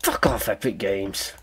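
very high, squeaky-pitched indignation; mock outrage. Viewer calling out a piss-take of small people, mock outrage. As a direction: screech up high in exaggerated disbelief.

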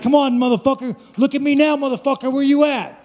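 mock-goading fight talk; retold taunt. Taunts opponent during retold fight.

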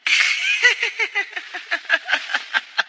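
high cackling laughter; maniacal laugh. Acted. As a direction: cackle like a madman. Gloating over captive.

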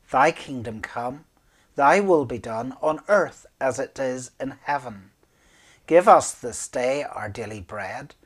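steady unison prayer recitation; Lord's Prayer recited. Acted.

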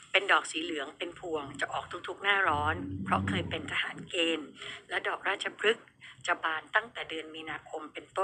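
soft, subdued radio read-aloud; reading listener's message. Acted. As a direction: read the message out quietly, a little low.

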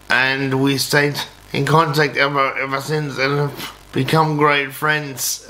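ordinary delivery

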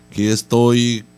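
ordinary talk, nothing marked

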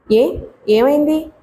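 slow, faltering, stammered question; slow asking. A narrator's reading. Young wife asks the maid, slow and hesitant. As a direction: draw the question out with a stumble. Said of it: "ఏమైంది అని ఇంకా మెల్లగా అడుగుతున్నారు".

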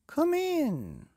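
high, loud bellowing king; booming king. Acted. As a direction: boom it out as a jolly king. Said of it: "cried the king with a boom".

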